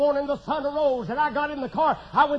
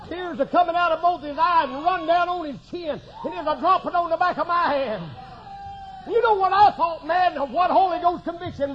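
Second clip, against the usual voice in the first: raised, driving pulpit voice; fired-up preaching; 6 semitones higher, 7 dB louder than usual. Real, not acted. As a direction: preach it with rising urgency. Preaching at full force.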